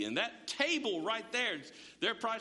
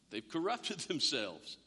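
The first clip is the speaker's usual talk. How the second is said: laughing through it; 6 semitones lower, slower than usual. Shown as a demonstration.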